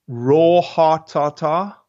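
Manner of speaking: slow South African heart tartar, drawn-out vowels; South African accent. Real, not acted. Speaker's South African accent as he lists the meal. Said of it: "it's my accent that's fooling you".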